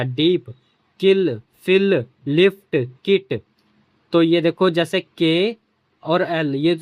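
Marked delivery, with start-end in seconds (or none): 1.0-3.4 किल, फिल, लिफ्ट, किट said slowly, each with a crisp short i; short i examples. Shown as a demonstration. Teacher slowly modelling short-i words for the class. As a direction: model each word slowly, pitch raised, short i clear. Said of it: "यहाँ पे छोटा ई निकलेगा".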